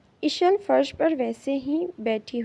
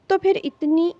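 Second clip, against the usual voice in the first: crying; 2 semitones higher, 4 dB louder than usual. A narrator's reading. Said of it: "روتے ہوئے کہا تھا".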